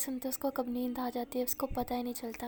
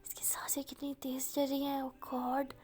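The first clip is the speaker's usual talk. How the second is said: flustered whisper; 4 dB quieter, slower than usual. Acted. Listening to breathing, flustered.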